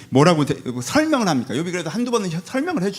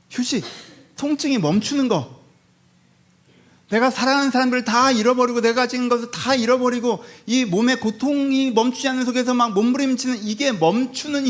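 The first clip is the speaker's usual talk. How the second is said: raised pitch, pleading as the suffering Job; anguished plea; 5 semitones higher than usual. Acted. Job crying out to God for rest, anguished plea. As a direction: plead for rest from unbearable pain.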